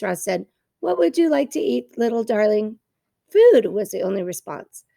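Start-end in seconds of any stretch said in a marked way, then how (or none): 0.8-2.8 put-on sweet, coaxing question to a baby; friendliest voice. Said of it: "using his friendliest voice". 3.3-3.7 high, loud demanding chick cry; hungry gosling. Acted.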